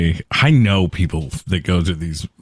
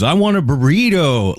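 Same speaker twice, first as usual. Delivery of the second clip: higher, overdone Spanish on "burrito"; mock Spanish accent; 6 semitones higher than usual. Diner ordering Mexican food, mock Spanish accent. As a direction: show off your few words in mock Spanish accent. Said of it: "you know a couple of words".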